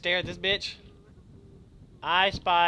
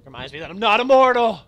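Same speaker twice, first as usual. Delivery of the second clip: loud, higher mock-grand declaration; hammed-up cry of mortality; dramatic shout; 4 semitones higher, 12 dB louder than usual. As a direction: proclaim it like a hammy hero.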